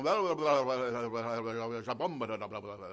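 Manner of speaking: imitating ecstatic worship gibberish; mock heavenly gibberish. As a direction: babble like someone speaking in tongues at a service. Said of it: "it was not heavenly gibberish".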